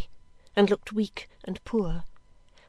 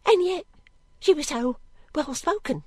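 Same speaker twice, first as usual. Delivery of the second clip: higher, pitying maid's voice; plaintive servant girl; 8 semitones higher, 3 dB louder than usual. Acted. Girl recalling the well-spoken woman, plaintive. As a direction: insist sadly, with wonder.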